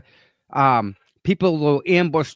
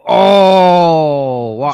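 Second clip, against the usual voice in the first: shocked gasp; 7 dB louder than usual. Retold or imitated. Mimicking Deanna's shocked reaction.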